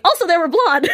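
real laughter breaking in; laughing. Real, not acted. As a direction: giggle it out. Laughing aside.

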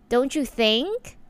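"Don't you think?" said slowly, ending on an upward lift; rising question ending. Shown as a demonstration. Showing how women end sentences, slow rising question. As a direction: let "think" float up, unsure. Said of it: "the ending is like".

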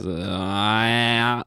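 drawn-out groan like a record winding up; vinyl speeding up. Shown as a demonstration. Host demonstrating the South African accent joke, vinyl speeding up. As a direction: slide slowly up like vinyl reaching speed. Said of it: "taking time to speed up to its playing speed".

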